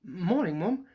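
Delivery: light, breezy charm to disarm mum; chirpy innocent greeting, a touch bright; jaunty winning voice. Acted. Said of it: "in what was clearly thought was a jaunty, winning voice".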